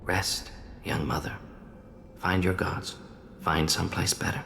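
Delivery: soft, gentle farewell to the dead; tender, subdued last rites; solemn blessing. Acted. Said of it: "I didn't expect spirituality from you".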